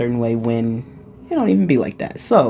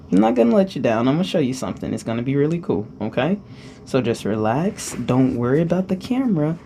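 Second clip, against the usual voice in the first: gentle reassurance; 4 dB quieter than usual. Acted. Reassuring the nervous host.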